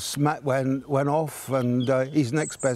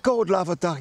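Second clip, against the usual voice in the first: lightly Cockney, "God love a duck" pitched higher; a hint of a Cockney bobby, voice raised; Cockney copper; 5 semitones higher than usual.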